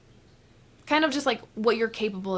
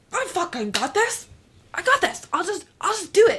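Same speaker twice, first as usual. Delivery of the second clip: much higher, louder, fast hyped-up self-talk; delusional hype; 9 semitones higher, 4 dB louder than usual. Retold or imitated. Her delusional self hyping herself up, excited and loud. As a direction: pump yourself up, overconfident. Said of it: "the delusional version of me would be like".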